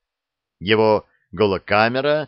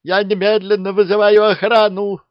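very high, very loud outburst; furious shout; 11 semitones higher, 8 dB louder than usual. A narrator's reading. Lieutenant threatens to call the guard, yelling. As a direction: scream it, patience gone.

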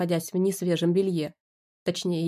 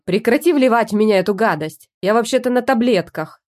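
loud indignant outburst; angry protest; 2 semitones higher, 7 dB louder than usual. Acted. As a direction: stop them, furious. Angry protest in husband's body.

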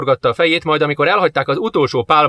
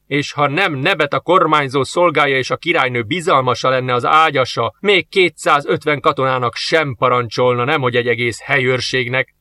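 angry rant. Acted. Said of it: "a harcos dühös szóáradatát".

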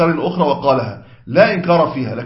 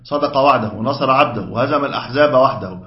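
recited dhikr; 2 semitones lower than usual. Retold or imitated. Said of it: "أن يقول المرء".

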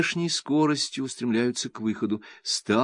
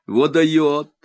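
delighted mutter; 6 semitones higher, 6 dB louder than usual. A narrator's reading. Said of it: "восторженно бормочет Изя".

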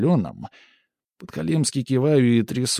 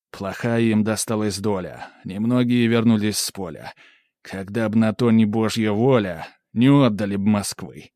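louder, swelling patriotic verse; inspired recitation; 4 dB louder than usual. A narrator's reading. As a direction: build to a proud finish. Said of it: "читаю уже с вдохновением".

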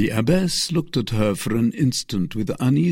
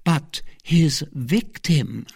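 sighing; 6 semitones higher, much slower than usual. A narrator's reading.

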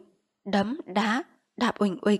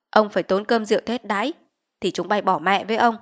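stern chief; 5 dB louder than usual. Acted. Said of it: "Lý Trường vẫn làm ra cương quyết".

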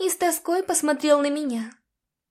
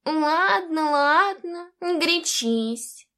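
mild irritated concession; snorting surrender; 2 semitones higher, slower than usual. A narrator's reading. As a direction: huff and give up. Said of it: "фыркнул дух и сдался".

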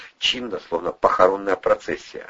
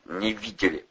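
grudging answer; 7 dB quieter than usual. A narrator's reading. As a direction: answer softly through grinding teeth. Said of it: "заскрипел зубами Вардюк".

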